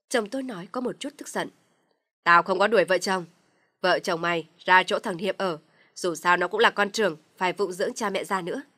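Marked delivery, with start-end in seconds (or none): 2.2-8.6 loud, harsh paternal shout; angry shout. Acted. Father-in-law shouts down his son. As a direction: lay down the law loudly.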